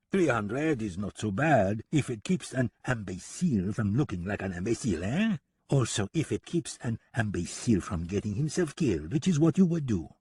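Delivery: put-on shameless French-accented haggling; a hint of taunting French villain; lightly voiced French gunman. French gunman justifies his fee to deputy, lightly taunting French accent.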